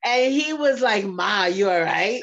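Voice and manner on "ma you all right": lower, raspy man's voice; deep raspy voice. Retold or imitated. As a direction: put on his deep rasp. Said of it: "With his deep, raspy voice".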